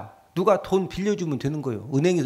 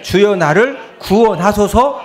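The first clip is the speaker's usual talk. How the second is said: cry out; 4 semitones higher, 6 dB louder, slower than usual. Acted. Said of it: "소리질러 이르되".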